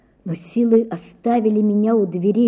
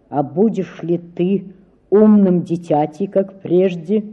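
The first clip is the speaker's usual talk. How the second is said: stern; 3 semitones lower than usual. Acted. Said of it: "сурово спросил он меня".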